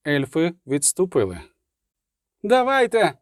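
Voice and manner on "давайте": high-pitched wild challenge; wild cry. A narrator's reading. Lone Райла daring the elves, wild high cry. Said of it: "крикнула вона дико".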